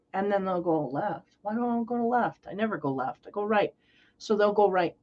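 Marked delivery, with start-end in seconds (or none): 0.9-3.7 softer, muttering to himself, puzzled; quiet stubborn mutter. Retold or imitated. Earth sign shrugging off his instinct, muttering softly. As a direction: grumble it under your breath, unconvinced.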